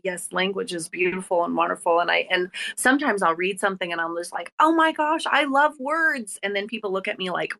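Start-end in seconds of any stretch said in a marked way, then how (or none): 4.6-6.4 gushing delight. Retold or imitated. Host gushing to guests about loving words, high excited swoon. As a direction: gush over words like a lovestruck fan.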